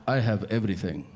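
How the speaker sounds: put-on Arab accent, measured; Arab man's accent. Arab guy offers change in line, in a put-on Arab accent. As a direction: imitate an Arab man offering help. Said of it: "this one Arab guy".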